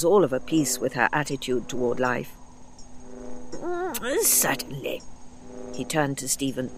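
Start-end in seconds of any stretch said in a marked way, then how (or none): 3.5-5.0 hint of a fussy old man; a distracted elderly murmur; light old doctor voice. A narrator's reading. The doctor answering the Chumbly, lightly voiced.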